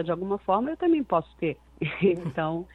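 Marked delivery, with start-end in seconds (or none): 0.0-1.6 more delicate voice. Shown as a demonstration. Singer showing interviewer her other register, more delicate voice. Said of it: "uma voz mais delicada".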